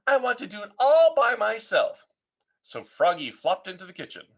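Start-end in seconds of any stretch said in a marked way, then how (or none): 0.1-2.1 lightly voiced child. Froggy insisting.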